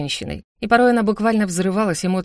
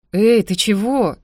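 slow, louder startled concern; suddenly concerned; 4 semitones higher, 5 dB louder, slower than usual. Acted. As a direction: caught off guard by her tears. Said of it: "спохватился Мирон".

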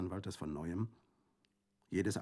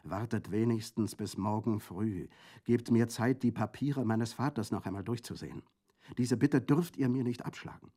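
louder, higher pleading; 5 semitones higher, 6 dB louder than usual. A narrator's reading. Colomba pleads with her brother to wait, pleading. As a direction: plead for one more night. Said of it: "flehte Colomba".

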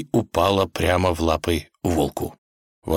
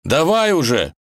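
high, loud impatient cry; gritted-teeth urging; 10 semitones higher, 5 dB louder than usual. Acted. Ivan hangs from the root urging the wolf, desperate. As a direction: demand it under desperate strain. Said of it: "Парень стиснул зубы".

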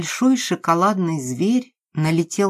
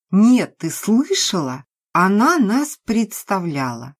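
higher, louder indignant repeat; indignant to friend; 4 semitones higher, 5 dB louder than usual. Acted. Maria repeats it to Lena, raised and indignant. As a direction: stir up her friend in outrage.

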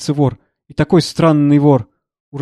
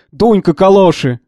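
imitating a shout; 4 semitones higher, 5 dB louder than usual. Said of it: "а он стоит и кричит".

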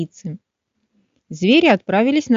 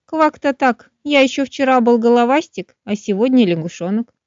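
little frog voice; 3 semitones higher than usual. Acted. Frog explains to finch.

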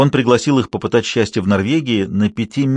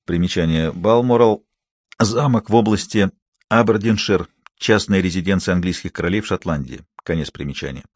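footnote aside; 3 semitones lower than usual. A narrator's reading. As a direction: step out of the story to read a note. Footnote read by narrator. (тихое чтение примечания)

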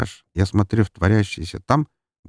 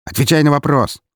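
louder, high insistent order; stern demand; 7 semitones higher, 5 dB louder than usual. A narrator's reading. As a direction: demand an answer. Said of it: "потребовал он".

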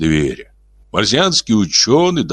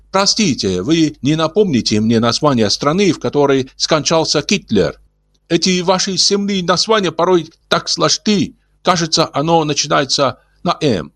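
gentle alien voice; 10 semitones higher than usual. Acted. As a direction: speak like a kindly old alien. Ulin voiced.

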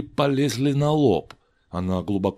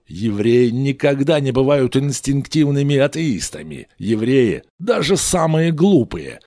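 Moses lecturing; 3 semitones higher, 5 dB louder than usual. Acted.

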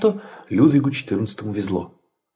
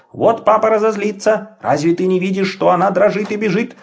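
exclaiming; 7 semitones higher than usual. Acted. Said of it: "воскликнул Петер".

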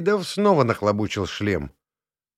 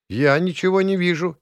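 much higher, anxious cry; nervous; 9 semitones higher, 4 dB louder than usual. A narrator's reading. Talia left in the dark, nervous. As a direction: rush it out nervously. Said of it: "нервно сказала Талия".

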